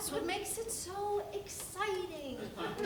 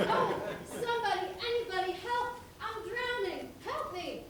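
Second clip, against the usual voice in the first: staged drowning cries; 5 semitones higher than usual. Acted. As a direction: play the panic for the audience. Staged drowning, second surfacing.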